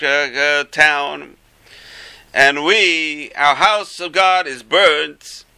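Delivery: slow, high lament on a held note; acted lament.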